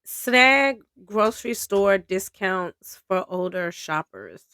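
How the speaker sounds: steady reading-aloud voice; article read-aloud. Acted. Host reading a grocery discount article, steady read. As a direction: read the piece out as written.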